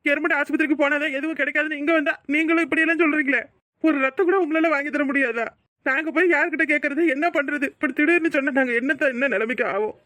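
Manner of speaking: furious relative berating the hospital; angry scolding. Acted. Scolding hospital staff over blood.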